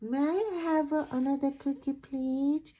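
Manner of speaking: lightly voiced duckling asking fast. Duckling asks the pigeon again, quick and sweet.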